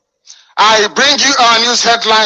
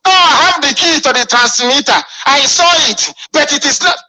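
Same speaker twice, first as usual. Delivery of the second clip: higher mock voice of a boastful liar; mocking imitation; 6 semitones higher than usual. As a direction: parody their empty claim, sneering. Mocking opponent's claimed words.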